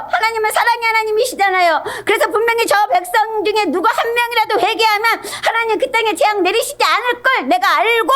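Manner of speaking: high-pitched rant, tumbling out in protest; acted-out indignant tirade; angry Jonah. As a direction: argue with God, exasperated and high. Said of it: "요나 막 이랬어요".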